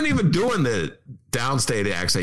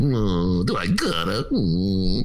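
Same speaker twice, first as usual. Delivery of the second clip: whiny reluctance; 4 semitones lower, much slower than usual. Retold or imitated. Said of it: "D B not wanting to dig in his wallet imitation".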